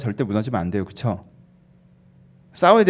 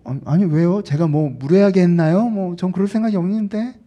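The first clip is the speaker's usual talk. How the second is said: mock-innocent protest, pitched up; sulky denial; 4 semitones higher than usual. Believer denying to God that they sulk, huffy. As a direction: feign innocence while still in a huff. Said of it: "삐졌니라고 물어봐도 안 삐졌다 그러고".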